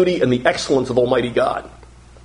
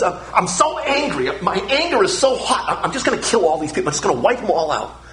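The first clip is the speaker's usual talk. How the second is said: lightly voiced angry God; 2 semitones higher than usual. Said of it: "So God says".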